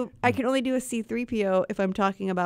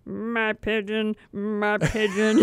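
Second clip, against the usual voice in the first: character voice; slower than usual. Acted. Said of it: "this huge range of, like, "My pigeon".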